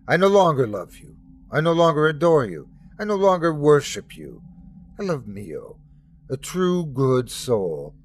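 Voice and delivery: defiant son, rising to a firm declaration; Jesus renouncing God. Acted. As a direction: break with the father, steady and resolute. Jesus denounces his father.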